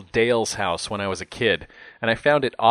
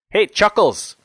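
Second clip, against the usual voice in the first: high, loud cocky holler; brash shout for attention; calling out; 10 semitones higher, 6 dB louder than usual. A narrator's reading. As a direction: call out to someone down the hall. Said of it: "he called out".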